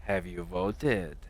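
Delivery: slow, dragged-out mock of an upset friend; mock disappointed question; mocking imitation. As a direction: stretch it out like a disapproving nag. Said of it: "the way you said it".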